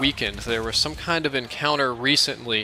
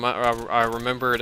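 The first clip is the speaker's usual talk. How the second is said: normal talking voice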